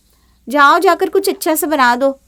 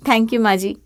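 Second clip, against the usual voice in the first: laughing thanks; 3 semitones lower than usual. Acted. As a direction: laugh it off sweetly. Sister-in-law laughs at compliment.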